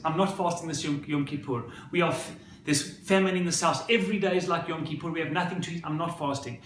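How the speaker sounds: mildly heated retold protest; protesting son. Hungry son refuses his mother's plea to fast, mild retold protest. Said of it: "everyone's shouting at each other".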